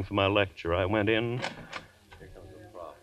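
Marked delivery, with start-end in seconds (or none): 2.2-2.9 hushed far-off student; distant murmur. Acted. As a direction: mutter from the back. Student murmur in lecture hall.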